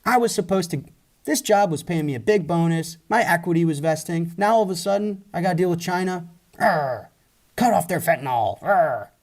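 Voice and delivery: mock angry rant. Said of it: "That guy's like".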